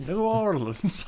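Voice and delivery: mock New Orleans accent on the city name. Shown as a demonstration. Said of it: "do the accent".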